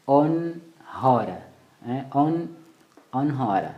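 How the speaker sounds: on hora split, with a nasal ON; nasal N, silent H. Shown as a demonstration. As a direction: hum the ON through the nose, then hora. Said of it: "ile sauti ya puani". (on hora, ON itokee puani)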